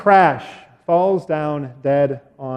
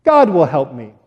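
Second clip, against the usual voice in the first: confident; 3 semitones lower than usual. Acted. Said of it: "David very confidently says".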